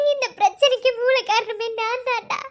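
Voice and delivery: guilty confession through sobs; tearfully blaming herself; crying. Acted. Wife blames herself, crying.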